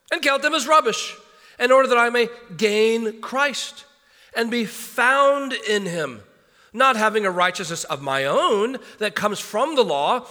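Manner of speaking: measured, solemn Bible reading; scripture reading. Acted. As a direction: read the passage with weight, building in the middle. Reads scripture passage aloud.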